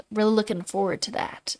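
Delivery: dry sarcastic enthusiasm. Real, not acted. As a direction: say it fake-cheerful, meaning no. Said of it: "I'm not looking forward to that".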